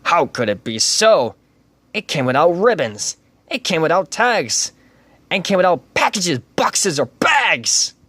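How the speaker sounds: puzzled Grinch. Acted. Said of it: "stood puzzling and puzzling".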